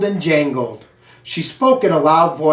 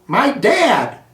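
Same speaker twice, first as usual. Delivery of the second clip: shouted out; 7 semitones higher than usual. Acted. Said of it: "A voice shouted out".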